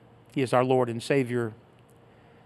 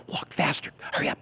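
urgent hush; 6 dB quieter than usual. Retold or imitated. Telling his wife on the dock to hurry, urgent hush. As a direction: press her to hurry without being heard. Urging wife away from stranger.

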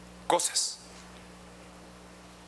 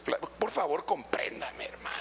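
whispered plea; 6 dB quieter, slower than usual. Real, not acted. Pleading aside to congregation.

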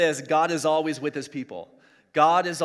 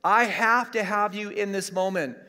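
impassioned plea; 5 semitones higher, 3 dB louder than usual. Acted. Voicing Moses' desperate plea.

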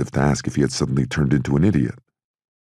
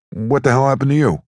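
high, blustering outburst; overdone hearty bluster; too loud, blustery; 11 semitones higher, 4 dB louder than usual. A narrator's reading. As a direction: bluster a bit too hard to cover surprise. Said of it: "a little too loud and too blustery".

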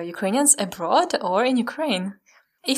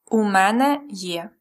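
slow repeat model; slower than usual. Shown as a demonstration. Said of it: "Listen and repeat".

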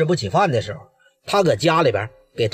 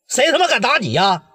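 higher, outraged, rising to an angry cry; angry outburst; 8 semitones higher than usual. Acted. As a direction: flare up at whoever hurt your little brother. Big brother hears brother was beaten.

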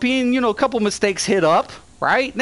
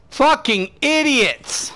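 slow, dragged out and higher; disgusted drawn-out curse; 4 semitones higher, much slower than usual. Real, not acted. Streamer cursing his own team, slow and disgusted. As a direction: stretch each word in real contempt. Teammates failing in match.

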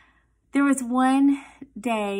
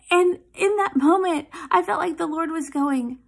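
higher and louder as the wonder builds; rising excitement; 4 semitones higher, 4 dB louder than usual. Real, not acted. Telling the ladies about the rainbow, rising excitement. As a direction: let the excitement climb as you realise it.

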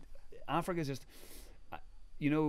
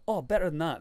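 higher-pitched retold one-upping; imitated eager official; 7 semitones higher, 4 dB louder than usual. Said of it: "He's like".

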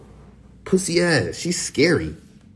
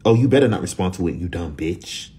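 scolding Siri; 4 dB louder than usual. Real, not acted.

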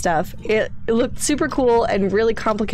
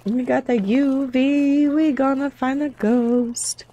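slow, secretive whisper; 4 semitones higher, slower than usual. Acted. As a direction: hush it like a ghost hunter. Whispering with UV light.

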